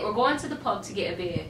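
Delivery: put-on amateur English accent, casually delivered; English-accent attempt. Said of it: "I just did it".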